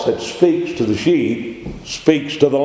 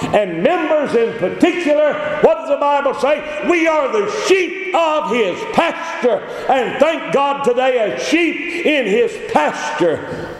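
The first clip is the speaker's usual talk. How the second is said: fervent preaching; 12 semitones higher than usual. Acted. Preacher exhorting the congregation, ringing and high. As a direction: drive the point home to the flock.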